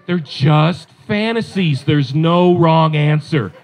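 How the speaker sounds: mock-insistent wife, drawn-out words; lightly voiced wife pressing her point; persistent coaxing. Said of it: "she kept persisting".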